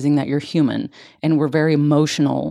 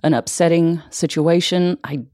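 tender self-comfort. Shown as a demonstration. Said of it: "close your eyes and say".

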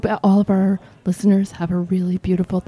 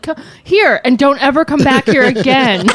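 higher, mock-exasperated dismissal; 4 semitones higher than usual. Liquor store clerk getting rid of underage girl, exasperated. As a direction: imitate a fed-up clerk shooing someone off.

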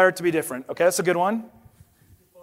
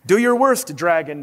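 bold challenge. Acted. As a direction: declare it like a hero. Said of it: "declared the shiny man".

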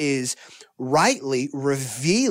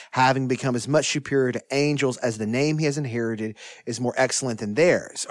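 measured, formal reading of a Bible passage; steady, solemn reading of Scripture. Acted. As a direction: read the passage aloud with reverence. Reading Hebrews one aloud.

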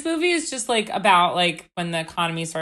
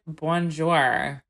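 lightly mimicked French accent; mock French accent; 3 semitones lower than usual. Joking about an actor's accent attempt, mock French accent. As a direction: put on a slight French accent. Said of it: "do a good French accent".

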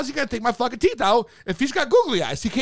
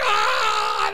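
high open-mouthed "aah"; mock cry with the mouth propped open; 10 semitones higher than usual. Patient with block in mouth being poked, mock cry. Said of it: "I got like this".

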